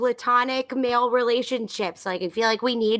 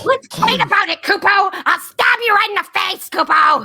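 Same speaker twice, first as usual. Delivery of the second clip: higher, louder playful threat; mock fight challenge; 8 semitones higher, 7 dB louder than usual. Moogle challenging the bard to a mock fight, playful and loud. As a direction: pick a fight, half in jest.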